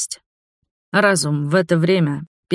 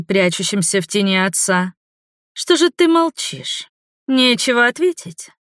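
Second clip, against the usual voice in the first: taunting vampire woman; 5 semitones higher than usual. Acted. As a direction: toy with the captive sweetly. Voices the villainess Neva.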